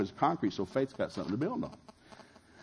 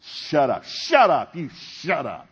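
higher, much louder mock shouting match; mock angry shout; 4 semitones higher, 8 dB louder, much slower than usual. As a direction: yell it like a fighting spouse. Retelling couple's shouting match.

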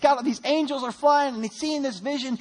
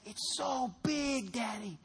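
put-on child's voice; 2 semitones higher, 9 dB quieter, much slower than usual. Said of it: "my son, and he says".

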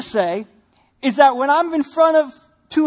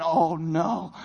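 inner panic; 7 semitones lower, 5 dB quieter than usual. Retold or imitated. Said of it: "inside I'm thinking".

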